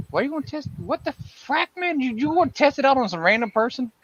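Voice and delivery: high, disbelieving outburst; can't believe what he's hearing; shocked pitch jump on every question; incredulous surprise. Real, not acted. Incredulous at viewer's plan.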